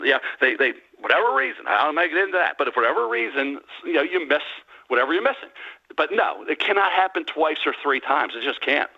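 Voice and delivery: ordinary talk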